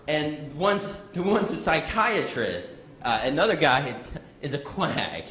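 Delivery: fumbling joke delivery full of false starts; bad joke teller. Comic impersonating someone botching a bar joke, bad joke teller. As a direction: keep breaking off and restarting, flustered. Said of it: "a bad joke teller".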